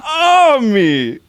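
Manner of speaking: gloating villain taunt. Acted.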